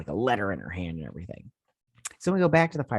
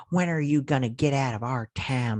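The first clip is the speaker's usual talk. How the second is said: raised, higher put-on heckler voice; mock heckling; 4 semitones higher than usual. Woman standing up at the town meeting, mock heckling. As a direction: imitate an indignant townsperson calling out.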